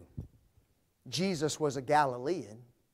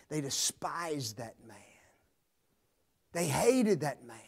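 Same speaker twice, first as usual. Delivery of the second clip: whisper; 2 semitones lower, 5 dB quieter than usual. Acted. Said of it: "hushed line".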